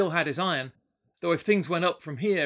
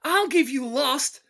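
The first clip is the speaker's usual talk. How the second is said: put-on drunken shouting; 10 semitones higher, 6 dB louder than usual. Drunk to sheriff, loud and high, sputtering. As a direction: rage and sputter for an excuse. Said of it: "he shouted".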